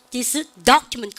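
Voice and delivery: "document" punched, drawn out slowly; slow down and hit "document"; stress on DOCUMENT. Shown as a demonstration. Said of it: "크게 들리죠?".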